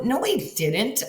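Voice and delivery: high, slow stunned denial; shocked disbelief. Retold or imitated. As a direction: refuse to believe it. Denying the news of death.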